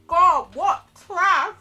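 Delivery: loud, slow, disgusted; disgusted shout. Acted. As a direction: spit out the insult. Character disgusted at Joseph.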